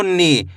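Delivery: नी with the ee held long; long drawn-out ee. Shown as a demonstration. Teacher joining na and big ee, drawn-out नी. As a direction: stretch out the vowel of नी. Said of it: "खींच के पढ़ेंगे".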